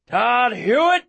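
high yelled name; yelling a name. Acted. Hunter chasing the dog, yelling the boy's name. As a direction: yell the name after the dog. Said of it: "I hear Aaron yell".

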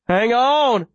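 high, urgent command; urgent plea. A narrator's reading. Runner to the wounded girl he carries, urgently pleading. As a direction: urge her to hold on, voice pitched high. Urges wounded Viola while running.

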